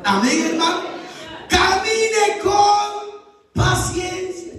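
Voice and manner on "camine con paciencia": higher, slow preaching shout; shouted refrain. Acted. Preacher urging patience, slow and shouted. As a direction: bellow the refrain at the church. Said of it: "shouted refrain".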